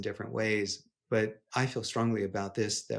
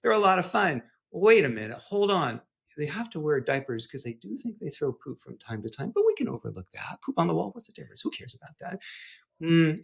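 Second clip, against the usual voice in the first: playful absurd dad; 2 semitones higher than usual. Shown as a demonstration. Dad pitching a pet chimpanzee to his kids, goofy. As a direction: sell a ridiculous idea with a grin you can hear.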